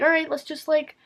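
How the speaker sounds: imitating a patronizing counselor; condescending. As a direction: talk down to her like a child, sweetly. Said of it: "in that, like, condescending way".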